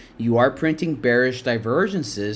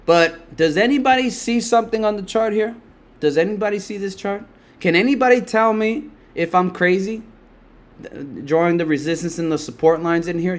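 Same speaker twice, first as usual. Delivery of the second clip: higher, disbelieving appeal to chat; half-laughing incredulous ask; incredulous plea; 5 semitones higher than usual. Real, not acted. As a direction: beg chat to confirm you're not crazy.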